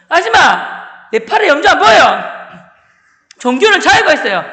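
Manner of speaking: high, loud student outburst; defiant shout. Retold or imitated. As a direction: protest loudly at the teacher. (선생님께 대들며 버럭 소리치기)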